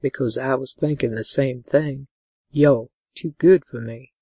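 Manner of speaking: low male lover's confession; gentle. A narrator's reading. Man admitting she's too good for him, gentle and low. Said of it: "he asked gently".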